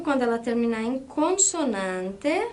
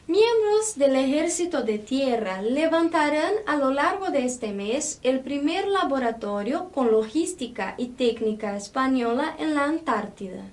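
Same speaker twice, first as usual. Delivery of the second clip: teacher reading aloud, making the accented syllables noticeable; demonstrative Spanish read-aloud. Shown as a demonstration. Teacher reads the text for students to notice accents, demonstrative Spanish read-aloud. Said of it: "Percebam a minha pronúncia quando há esse acento".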